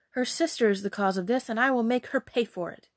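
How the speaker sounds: vengeful, emphatic threat; mildly heated indignation; angry. Acted. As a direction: vow to punish her. Mother vows revenge on daughter.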